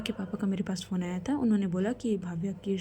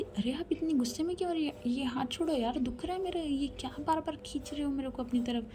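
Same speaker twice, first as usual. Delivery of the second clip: higher and softer, a hurt plea; mock pained voice, higher and hushed; pained protest; 4 semitones higher, 4 dB quieter than usual. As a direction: complain that her arm is being pulled. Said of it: "बोलती".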